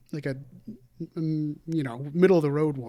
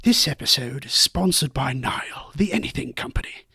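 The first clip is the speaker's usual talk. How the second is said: lightly put-on British documentary narration; measured British narrator reading an ad; David Attenborough; 3 dB louder than usual. Co-host reading a sponsor ad on request, mock British naturalist. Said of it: "David Attenborough, yeah".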